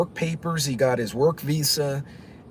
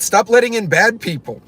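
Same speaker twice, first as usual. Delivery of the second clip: raised, emphatic demand, higher pitch; voice getting loud; 8 semitones higher, 7 dB louder than usual. Retold or imitated. Cuban driver venting to his passenger, voice raised loud. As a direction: belt it out like a heated driver. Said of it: "his voice got loud".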